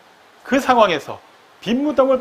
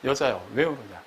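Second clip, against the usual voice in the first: lower, softer, simply asking; a calm question with no alarm; plain asking; 7 semitones lower, 6 dB quieter than usual. Retold or imitated. Angel asking the weeping woman, softly and simply. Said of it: "그냥 묻습니다".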